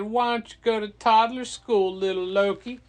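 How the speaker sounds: loud, high, teasing put-down; mocking taunt. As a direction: needle a crybaby in an acted voice. Taunts crying Loki as a baby.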